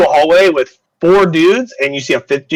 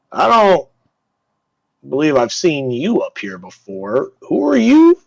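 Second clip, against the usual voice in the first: suspicious guard; slower than usual. Acted. Guard challenges stranger at door.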